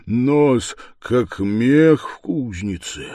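ordinary delivery, nothing marked

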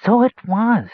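very high squeak; squeaky rat. A narrator's reading. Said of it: "squeaked a red-eyed rat".

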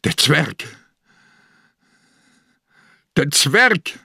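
schreiend. A narrator's reading. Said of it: "schrie er ins Zimmer hinein".

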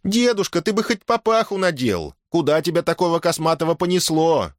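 high woman's voice, calling out after him; woman calling after grandfather. Acted. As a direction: call after the old man as he leaves. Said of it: "крикнула ему вдогонку".

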